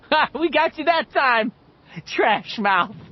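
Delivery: high, loud gleeful teasing; laughing. A narrator's reading. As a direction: crow at Richie through laughter. Eddie laughing hard, teasing.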